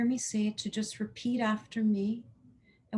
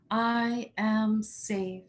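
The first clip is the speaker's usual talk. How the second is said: slow conviction; much slower than usual. Shown as a demonstration. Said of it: "Say it with power and conviction and a smile".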